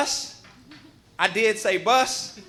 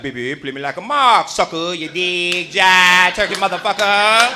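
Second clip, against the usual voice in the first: low, slow, smooth seventies hustler; seventies jive talk; 4 semitones lower, 4 dB louder, slower than usual. Retold or imitated. Uncle talking like it's still nineteen seventy-five. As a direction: lay the old jive slang on thick. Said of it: "he talk like".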